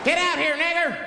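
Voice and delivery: high-pitched yell from outside; acted menacing yell. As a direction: mimic an attacker calling someone out. Acts hooded men yelling at house.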